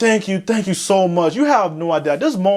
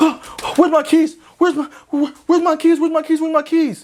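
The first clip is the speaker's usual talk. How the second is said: high, rattled-off, stumbling, repeated put-on panic; 8 semitones higher than usual. Retelling searching for keys in the car: retelling frantic panic. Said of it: "I'm over here losing my mind".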